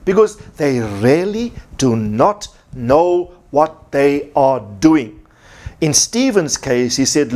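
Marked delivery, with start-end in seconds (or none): 0.1-5.2 slow, spaced-out stress on "do not know"; stressed words. Shown as a demonstration. Preacher explaining why Jesus forgave, slow and emphatic. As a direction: weigh each word of "what they are doing". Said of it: "I want to stress the words".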